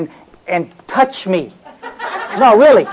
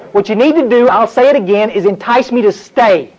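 retold gripe building. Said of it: "and I said, I'm grinding my teeth".

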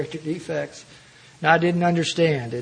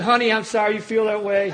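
sweetly smug reply; 4 semitones higher than usual. Retold or imitated. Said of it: "I said".

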